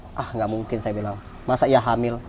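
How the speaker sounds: low, soft retold doubt; disbelieving aside. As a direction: say it low, as if to yourself. Retells his disbelief at pregnancy signs.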